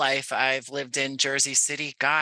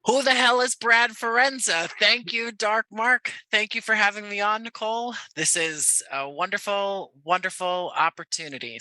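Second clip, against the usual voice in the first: shot out of a cannon; 7 semitones higher than usual. Real, not acted. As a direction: burst in like a cannonball. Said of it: "you're like shot out of a cannon".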